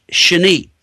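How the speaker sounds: "shani" said as SHAH-nee; pronounced shani. Shown as a demonstration. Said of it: "it's pronounced".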